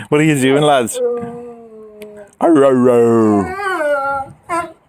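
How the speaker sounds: loud growling calls at the dog; shouting at the dog. Real, not acted. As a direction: bark it out to scold the dog.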